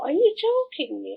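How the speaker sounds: are you kidding me, aghast; retold shocked disbelief; incredulous. Retelling disbelief at clinic.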